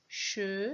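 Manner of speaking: "Chevreuil" as che, long pause, drawn-out vreuil; syllable by syllable. Shown as a demonstration. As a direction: hold back the vreuil of "Chevreuil". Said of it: "Deux syllabes". (« Chevreuil » très découpé : che… vreuil)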